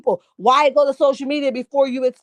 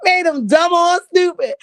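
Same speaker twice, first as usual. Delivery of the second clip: said through real laughter, a bit louder; laughing; 6 semitones higher, 4 dB louder than usual. Real, not acted. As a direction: crack up mid-sentence. Cracking up at chat comment.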